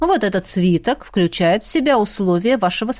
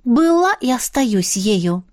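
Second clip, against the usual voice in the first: gloomy; slower than usual. Acted. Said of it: "хмуро сообщила".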